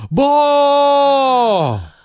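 put-on high, loud burst of toddler wonder; mock amazed cry. Host voicing the baby seeing cereal, loud amazed cry. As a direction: blurt it out like a dazzled kid. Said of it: "She's like".

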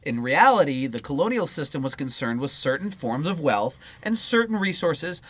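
measured read-aloud voice; book reading. Acted. Co-host reading political book to partner, read-aloud style. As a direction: read the political text out in full phrases.

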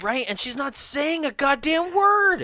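high-pitched, incredulous complaint; exasperated. Real, not acted. Co-host complaining about the silent captive girl, real exasperation. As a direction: let the exasperation push your pitch up.

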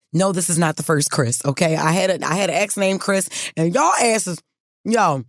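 talking while chewing gum; words around a wad of gum. Real, not acted. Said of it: "I'm sorry I'm chewing gum right now".

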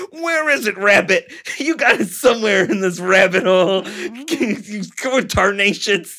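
high, put-on Looney Tunes hollering; cartoon hunter voice. Mocking the gunman as a cartoon hunter, high and silly. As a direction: play a cartoon varmint-hunter, hammed-up. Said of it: "so Looney Tunesy".

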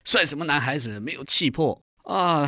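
egging him on, slowing on the last jab; retold fierce scolding. Imitating a friend goading him to shout, mildly fierce. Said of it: "那时候他很凶".

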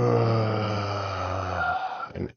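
long slow breath in and out through the nose; deep calming breath. A narrator's reading. Drago takes a calming breath to cool his anger, slow breath. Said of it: "breathed in through his nose".

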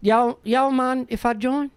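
slow, lightly voiced Southern kid; a hint of a drawn-out child voice; North Carolina kid. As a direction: imitate a Southern child timidly asking in. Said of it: "a child from North Carolina".

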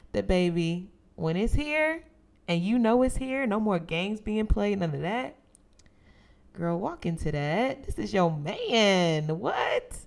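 excited hype. Pretend. Hyping up her future self.

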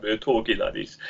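badly imitated Jamaican accent; mock Jamaican lilt, lightly done; terrible Jamaican accent. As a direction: put on a hammy, hopeless Jamaican accent. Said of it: "terrible Jamaican accent".

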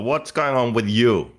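slow, lightly hammed radio host imitation; a touch of a mock DJ. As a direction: imitate his new radio voice, teasing. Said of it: "American radio personality now?".

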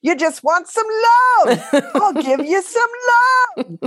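a loving Australian man's voice, high and slow; slow, high, tender Australian accent. Retold or imitated. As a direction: play the doting Australian stranger with a laugh in it. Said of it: "He also had an Australian accent".

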